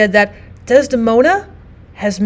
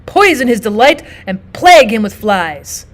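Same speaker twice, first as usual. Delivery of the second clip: venomous line reading; 4 dB louder than usual. Shown as a demonstration. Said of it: "in the tone you believe Iago would use".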